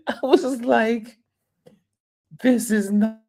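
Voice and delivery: high, laughing disbelief; half-laughing shock; giggly stunned aside; amused disbelief. Retold or imitated.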